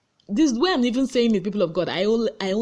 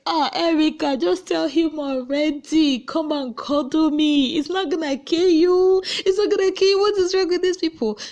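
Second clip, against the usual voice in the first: exasperated urging; 8 semitones higher, 3 dB louder than usual. Retold or imitated. Urging Erica to confess her feelings, exasperated. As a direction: egg her on in a put-on voice.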